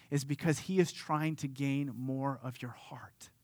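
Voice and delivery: hushed, breathless preacher whisper; soft whisper. Real, not acted. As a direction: lean in and whisper it to the congregation. Preacher drops to an intimate whisper.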